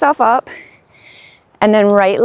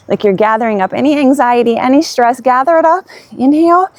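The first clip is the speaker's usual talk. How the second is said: building energy; 4 semitones higher than usual. Real, not acted. Lion's breath build-up.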